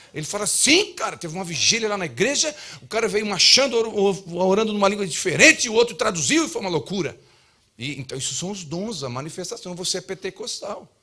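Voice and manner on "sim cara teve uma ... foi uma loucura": higher and louder, rushing at the end; eager church brother. Retold or imitated. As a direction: gush about the wild vigil. Brother excitedly recounting revival vigil.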